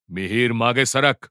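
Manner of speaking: slow, restrained growl of command; खेकसून दिलेला हुकूम. Acted. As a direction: order him back, mildly angry and slow. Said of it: "Toraman खेकसला". (सावकाश, खेकसत दिलेली ताकीद)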